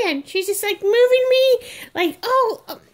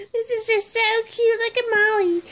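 gushing mom voice, higher at the start and rushed; mocking mom; 4 semitones higher than usual. Reborn doll imitates its owner gushing over filming her, in a mock excited voice. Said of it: "and it's like".

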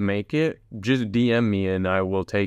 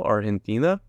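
Argentina with a Spanish-style breathy g and ringing "tina"; Argentinian accent. Acted. Host shouting out fans in Argentina, put-on Argentinian accent. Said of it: "if Argentinians do that accent".

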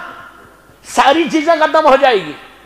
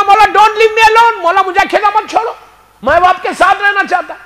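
tearful pleading; 7 semitones higher than usual. Acted. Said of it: "Ibrahim रोने लगा, कहने लगा".

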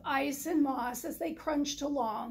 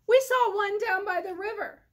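higher, louder she-goat calling; eager goat voice; 6 semitones higher, 6 dB louder than usual. Acted. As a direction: tell him excitedly like a goat.

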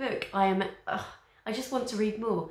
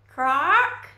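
sharp shouted crack; loud crack; 9 semitones higher, 11 dB louder than usual. Acted. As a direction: bark the word out. Sound effect word.

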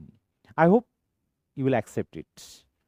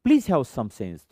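slow model phrase; much slower than usual. Shown as a demonstration. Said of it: "teacher models slow phrase".

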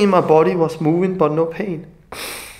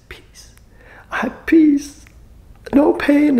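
retold whisper; 11 semitones higher, 3 dB louder, slower than usual. Healed mother crying, retold quote.

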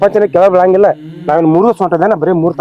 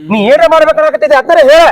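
angry; 6 semitones higher, 3 dB louder than usual. Acted. Son confronts mother angrily.

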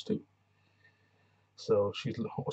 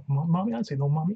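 high, loud whiny pleading; hammed-up breakdown cry; mock crying for mommy; 7 semitones higher, 7 dB louder, faster than usual. Singer pleading for her mom, mock whiny and high. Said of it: "That's basically what she, she did".

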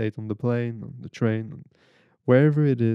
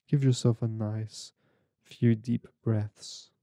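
measured, unhurried meditation guide with long pauses; guided meditation. Real, not acted. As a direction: guide them gently through breathing, phrase by phrase.

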